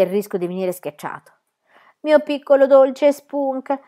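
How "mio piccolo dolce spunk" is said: slow, tender, higher cooing; tenderly. A narrator's reading. Pippi speaks tenderly to the beetle. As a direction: coo over the little beetle. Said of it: "disse teneramente".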